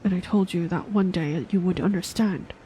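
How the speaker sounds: put-on weary old mentor recalling war; old man voice. Old master Omp speaking again.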